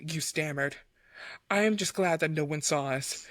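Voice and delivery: measured romance audiobook reading; composed storyteller voice; story narration. A narrator's reading. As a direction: read the love scene aloud, evenly and deliberately. Reads fan fiction aloud.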